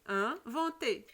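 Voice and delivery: "Inventer" slowly, opening nasal "In" set apart; syllable demonstration. Shown as a demonstration. Teacher tests pupils' ear for "un", slow split "Inventer". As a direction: stretch "Inventer" out so the first sound stands clear. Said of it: "Est-ce que vous entendez le son un?".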